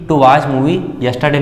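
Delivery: slow, word-by-word reading of the example. Shown as a demonstration. Teacher reading an example to students, very slowly. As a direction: read the example slowly for the class. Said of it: "यदि यहाँ पर ऐसा होता".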